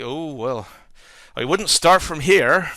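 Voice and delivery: slow, put-on West Country accent; West Country local. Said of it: "the local gives him a funny look".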